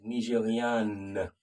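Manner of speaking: Nigériane drawn out slowly with the final N sounded. Shown as a demonstration. Teacher slowly modelling the female form. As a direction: stretch Nigériane and let the N ring. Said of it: "Female Nigerian".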